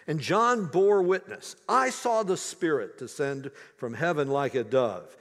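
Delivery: measured, earnest Bible reading; scripture reading. Acted. Preacher reading the Gospel to his congregation, solemn reading.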